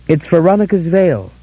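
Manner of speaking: triumphant cry. A narrator's reading. Dora holding the veil up, crying in triumph. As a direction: ring out in triumph. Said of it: "Her cry grew triumphant".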